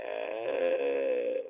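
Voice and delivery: long, low crying moan; imitated crying. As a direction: drone out a low mock sob. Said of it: "I'm back there crying, like".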